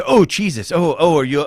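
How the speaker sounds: high, alarmed mock cry; imitating alarmed Mike. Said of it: "all I hear is".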